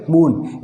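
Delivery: मून with a long oo; मून said with a held vowel. Shown as a demonstration. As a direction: let the oo in मून run long. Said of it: "इसको क्या बोलेंगे?".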